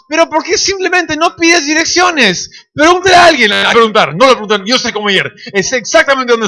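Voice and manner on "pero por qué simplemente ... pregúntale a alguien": higher, pleading push; a hint of an exasperated mother; exasperated wife. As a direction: nag him to ask for directions. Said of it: "Y mamá".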